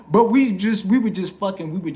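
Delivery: real laughter spilling into loud, high words; talking through laughter. Real, not acted. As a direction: carry on while still cracking up. Still laughing at his joke.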